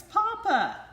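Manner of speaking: very high, loud delighted shout; even bigger joyful cry. A narrator's reading. Ducklings shouting papa again, very high and loud. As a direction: shout it as loud as you can. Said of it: "cried the ducklings".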